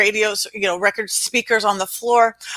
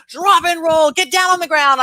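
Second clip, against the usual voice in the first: loud, higher urgent yell; shouted command; 6 semitones higher, 4 dB louder than usual. Retold or imitated. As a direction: order him to the ground. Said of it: "I'm screaming".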